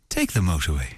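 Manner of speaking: put-on low, smooth Irish accent; deep put-on Irish voiceover; Irish sat-nav voice. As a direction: give directions as a seductive Irish sat nav. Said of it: "I actually have Irish Sean on my sat nav, and the best bit is when he says".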